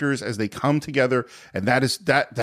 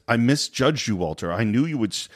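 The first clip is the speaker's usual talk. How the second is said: put-on a half-hearted stab at a Scottish Sean Connery accent; attempted Sean Connery accent; 3 semitones lower than usual. Podcaster quoting the film's father, mock Sean Connery accent. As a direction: try the Connery burr and give up partway. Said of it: "I can't do the accent".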